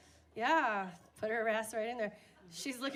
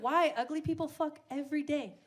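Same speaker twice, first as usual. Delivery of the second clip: loud, sassy comeback, pitched up; sassy retort; 4 semitones higher, 5 dB louder than usual. Retold or imitated. Snapping back at the CrossFit guy, louder. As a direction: fire it back at him.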